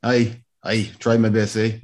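loose mock-Scottish lilt; attempted Scottish accent. Actor answers criticism of his accent in a put-on Scottish accent. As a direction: try a Scottish accent, badly. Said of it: "You have a terrible Scottish accent".

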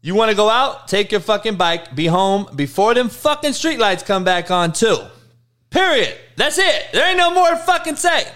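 lightly acted no-nonsense dad, pitch climbing; old-school dad. Dad sets streetlight curfew, mock stern father. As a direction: lay down the law, rising at the end. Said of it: "Here's my dad".

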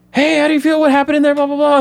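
crowd of press calling out at him; shouting reporters. Retold or imitated. Press swarming Barry outside court, mock shouting. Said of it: "the press swarms around him".

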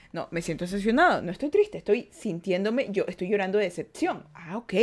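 low, soft inner monologue; reasoning with oneself. Acted. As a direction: talk yourself quietly through what you feel. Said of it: "hacer que tu cerebro se despierte".

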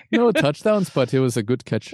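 joking, badly faked Irish accent; mock Irish accent. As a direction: play up a bad Irish accent. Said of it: "with that accent".

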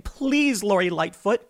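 high, whiny mock begging to the mayor; mock snivelling plea. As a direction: sneer while imitating a grovelling cop. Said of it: "sniveling and crying".

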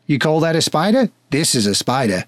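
lightly put-on bad Australian accent; a hint of a hammed-up Australian. Australian patron sizing up spiders, bad Australian accent. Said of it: "You knew the bad accent was coming back".

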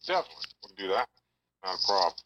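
talking down a phone line; phone speaker. Real, not acted. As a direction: voice through a speakerphone. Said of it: "You're, you're on speakerphone right now".

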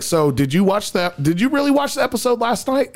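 lightly voiced girlfriend, pitch climbing in disbelief; mock quizzing girlfriend. Retelling how his girlfriend grilled him, mock high voice.

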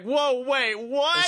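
high, startled whoa wait what; mock surprise. Fan reacting to a surprise heel turn, startled. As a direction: gasp like a shocked fan.

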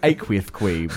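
aqueous said as aqueouth; lisp. Shown as a demonstration. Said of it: "it's just good with a lisp".

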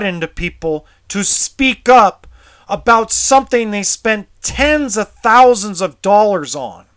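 real outrage, voice up and pushing; angry. Real, not acted. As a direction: let the fury out, pitch climbing. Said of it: "I get really emotional".

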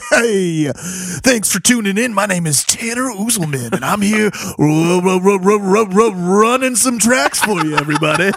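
lightly put-on radio DJ; laughing, stuttering DJ welcome; smooth radio host. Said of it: "radio D J voice".

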